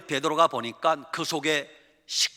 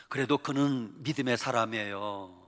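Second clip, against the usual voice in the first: ordinary delivery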